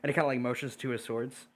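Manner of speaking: ordinary talk, nothing marked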